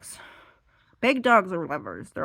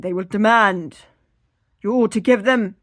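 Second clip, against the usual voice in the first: mock demand; 3 semitones higher, 11 dB louder than usual. Mock menacing dog demand.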